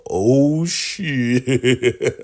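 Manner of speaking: sudden loud high burst of alarm; shocked alarm. Retold or imitated. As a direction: blurt it out as the trouble dawns. Hosts realise they are caught.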